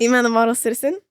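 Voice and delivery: clear, deliberate shout-out of the channel name; said properly. Shown as a demonstration. Retakes her channel name for the podcast, clearly announced. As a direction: present the name like a proud host. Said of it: "Wait, let me say that better".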